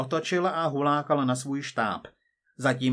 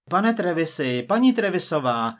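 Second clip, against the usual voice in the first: raised voice, pitched up; calling out; 5 semitones higher, 6 dB louder than usual. A narrator's reading. Sims hailing the Trevises across the dining room, calling out. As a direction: hail the couple loudly.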